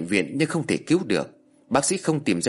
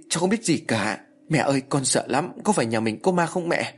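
frightened cry; 3 semitones higher than usual. Acted. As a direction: cry out in terror, voice pushed up. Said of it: "sợ hãi hét lên".

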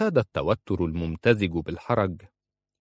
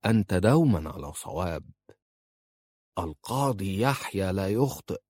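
mocking, measured false praise; sarcastic. A narrator's reading. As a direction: needle him with dry scorn. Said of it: "ثم قال في سخرية". (بسخرية وتهكم)

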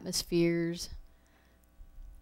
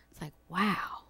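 awed whisper; 5 dB quieter than usual. Retold or imitated. Feeling peace walking into a place.

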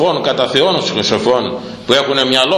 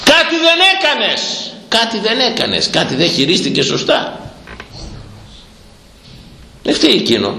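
accusing preacher; 9 semitones higher than usual. Real, not acted. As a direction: lay the blame on her, stepping down.

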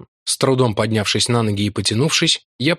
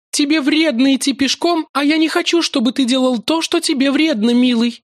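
much higher, tender plea; pleading maiden. A narrator's reading. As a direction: plead lovingly. Lakla pleads.

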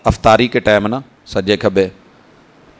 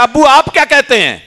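put-on child asking father; 12 semitones higher than usual. Son questions his father.

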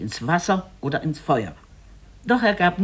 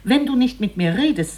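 higher, louder, suddenly angry; angry husband; 8 semitones higher, 4 dB louder than usual. A narrator's reading. The husband turns on his mute wife, suddenly angry and raised. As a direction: snap at the silent wife in rising anger. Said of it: "Da veränderten sich seine Mienen".

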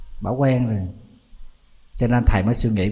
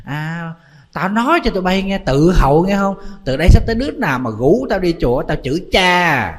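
put-on higher-pitched cranky old woman laying down the law; hammed-up granny scolding her group; mock scolding rant; 5 semitones higher than usual. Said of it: "có cái bà đó bà la". (bà già la mắng, giọng cao)

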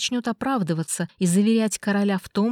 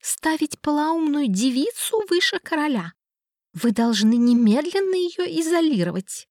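higher, outraged royal command; lightly voiced furious king; booming king; 7 semitones higher than usual. A narrator's reading. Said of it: "Голос короля прогремел на весь зал".

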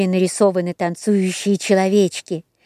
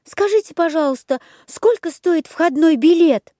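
put-on high eager puppet boy; quick chirpy wooden boy; Buratino voice; 7 semitones higher than usual. A narrator's reading. Buratino speaks. (голос Буратино)

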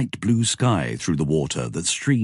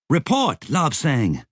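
yelled order; 9 semitones higher, slower than usual. A narrator's reading. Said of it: "Maggie yelled".

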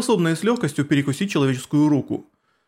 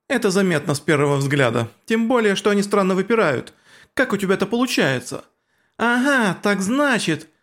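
put-on higher teasing girl voice; taunting girl; 5 semitones higher than usual. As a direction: needle her in a high voice. Girls trading taunts.

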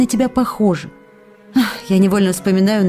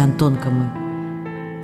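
soft, low and drawn out; tender endearment; 6 semitones lower, 5 dB quieter, much slower than usual. Acted. Wife kissing her absent husband in a letter, tender. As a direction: linger lovingly, letting the voice sink.

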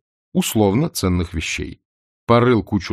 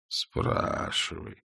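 slow commanding dragon; 11 dB quieter, much slower than usual. A narrator's reading.

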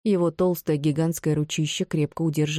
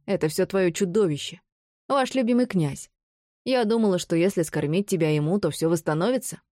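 high, manic crazed woman; crazed villainess; 4 semitones higher than usual. Acted. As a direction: rant like a madwoman. Narrator voices mad Bron.

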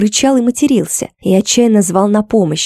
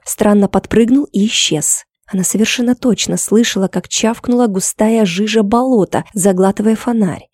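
ordinary delivery

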